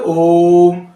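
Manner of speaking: ओम with the ओ held long; drawn-out Om. Shown as a demonstration. Teacher demonstrating the prolonged pluta vowel, slow and held. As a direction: stretch the ओ of ओम like a chant. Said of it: "ओ को हमने बहुत ज्यादा समय तक बोला".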